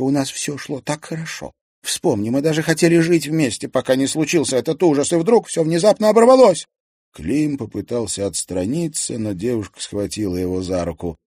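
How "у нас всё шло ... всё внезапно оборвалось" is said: desperate pleading. Acted. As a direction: voice rising higher and louder to a cry. (с отчаянием, всё выше)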